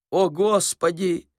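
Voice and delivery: put-on slow, high-pitched old man's lament; mumbling old man. A narrator's reading. Old man wailing to the rising sun, mumbling. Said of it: "зашамкал обитатель бревенчатого домика".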